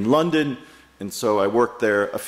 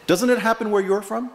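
lightly imitated laughing question, higher; amused question; 8 semitones higher, faster than usual. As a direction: ask it through a little laugh, teasing the visitor. Fisherman teasingly asks in retold story.

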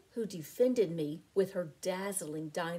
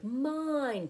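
eager cry; 7 semitones higher than usual. A narrator's reading. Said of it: "cried Doris".

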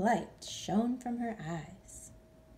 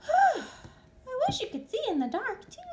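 wistful sigh; 4 dB louder than usual. Acted. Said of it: "she sighed".

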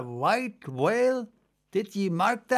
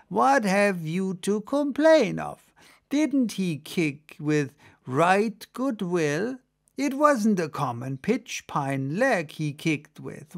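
put-on old sea creature preaching that the kick is an honor, mildly; lightly voiced merman sermonizing; lightly voiced old merman lecturing; 2 semitones higher than usual. Merman lectures about Ahab's kick.

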